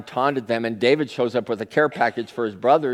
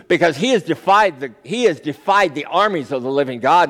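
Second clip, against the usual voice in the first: defiant declaration; 3 semitones higher, 4 dB louder than usual. Acted. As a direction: stand up to the king with conviction. David defies Goliath before Saul.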